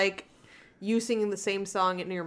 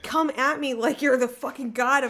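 mock outrage; 4 semitones higher, 4 dB louder than usual. Real, not acted. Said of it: "You're still leaning so far back".

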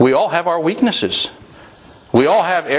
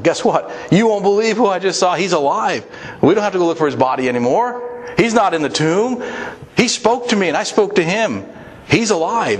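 higher, excited rush of news; 5 semitones higher than usual. Retold or imitated. Mary running to tell the disciples, excitedly. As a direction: burst out with the joyful news. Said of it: "I imagine she made a beeline".

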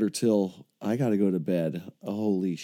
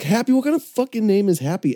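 much higher, mock-outraged disbelief; incredulous squeak; 10 semitones higher than usual. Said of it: "I'm like".

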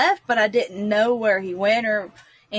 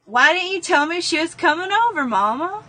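put-on insistent child; 7 semitones higher than usual. Child demanding answer.

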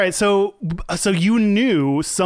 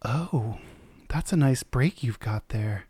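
sultry porn voice; 5 semitones lower, 6 dB quieter than usual. Pretend. Porn-style roleplay seduction.

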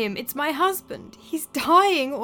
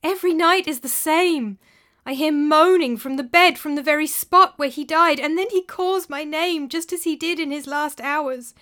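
crying out; 6 semitones higher, 5 dB louder than usual. A narrator's reading. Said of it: "cried Elisana".

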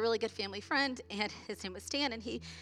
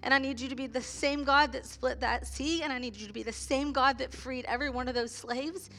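impassioned plea; 3 semitones higher than usual. Real, not acted. Impassioned testimony of hospital prayer.

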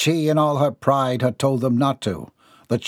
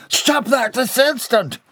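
high, loud, slower commanding; indignant order; 12 semitones higher, 3 dB louder, slower than usual. Acted. The man orders Bobby Sue to stop. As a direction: order her off you indignantly.

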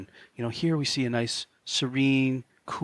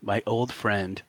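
sarcastic Khan; slower than usual. Retold or imitated. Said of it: "sarcastic Khan".

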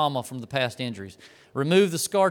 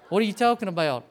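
laughing; 4 semitones higher, faster than usual. Retold or imitated. Coworker baffled, teller laughing.

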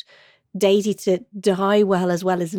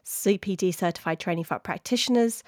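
podcast outro read; 6 dB quieter, faster than usual. Acted. Reads the scripted podcast outro.

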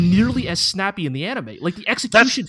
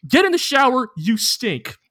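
mock scolding, pitched up at first; exasperated order; 4 semitones higher than usual. Two roommates ordering Power to wash, mock exasperation. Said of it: "Aki and Denji are both like".

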